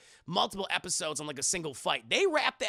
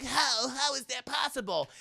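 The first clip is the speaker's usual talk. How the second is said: shocked disbelief; 6 semitones higher than usual. Retold or imitated. Defeated goblin boy.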